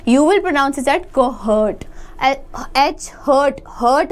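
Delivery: very slow, each word laid out; slow pronunciation demo. Shown as a demonstration. Teacher slowly shows students how to say it. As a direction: say it slowly so students can copy. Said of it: "जैसा मैं pronounce कर रही हूँ".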